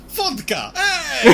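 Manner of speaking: put-on high, loud drunken yell; mock Russian shout. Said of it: "every time you reload".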